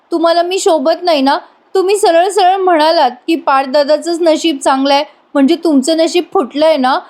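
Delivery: imitating an aggrieved wife; hurt sulking. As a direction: sulk and reproach, lightly acted. Acts hurt wife scolding laughing husband.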